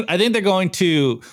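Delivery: choking on saliva; talking through a choke. Real, not acted. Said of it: "I'm choking on my saliva over here".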